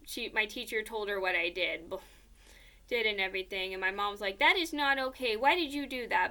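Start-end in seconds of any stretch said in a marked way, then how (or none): 4.4-6.3 lightly acted reproachful mother; imitating a parent's telling-off; a touch of stern disapproval; mock mom scolding.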